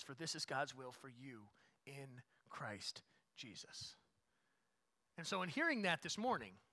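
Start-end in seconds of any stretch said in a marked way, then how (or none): 0.0-4.0 quiet and slow, letting the verse settle; soft slow scripture reading. Acted. Pastor rereading the verse to the church, soft and slow. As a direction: read it gently as a closing thought. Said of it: "verse read again, softly".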